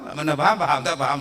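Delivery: ordinary talk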